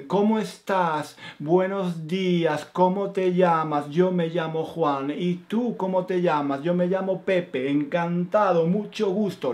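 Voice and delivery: a hint of a stilted classroom exchange; textbook dialogue. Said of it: "nadie habla así".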